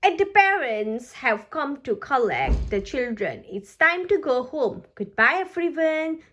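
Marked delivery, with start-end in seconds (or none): 3.5-6.2 cheerful. Acted. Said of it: "cheers Peppa".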